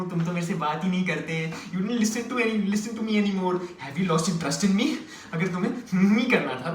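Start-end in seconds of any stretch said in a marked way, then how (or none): 0.0-4.9 slow, drawn-out mock reproach; mock sulky girlfriend. Girlfriend complaining he never talks, mock sulking. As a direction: lightly imitate a wounded girlfriend.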